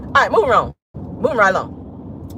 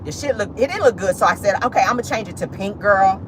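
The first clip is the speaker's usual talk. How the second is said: put-on gossipy girlfriend. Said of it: "But you come out like".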